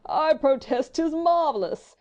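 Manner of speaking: slow, loud, high-swooping drawl; imperturbable fop. A narrator's reading. Englishman marvelling at Frenchman's English, foppish drawl. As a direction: drawl it in grand, unruffled admiration. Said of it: "continued Sir Percy imperturbably".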